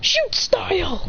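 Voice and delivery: high, drawn-out move name; attack call. Acted. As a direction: announce a kick like an anime hero. Acted attack call in story.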